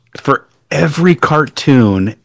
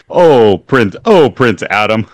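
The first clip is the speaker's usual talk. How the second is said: lightly hammed-up cartoon exclamation with falling pitch; mock old-cartoon line, punched on "oh"; cartoon imitation; 4 dB louder, slower than usual. Co-host quoting the cartoon bit, lightly imitated. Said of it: "It literally is".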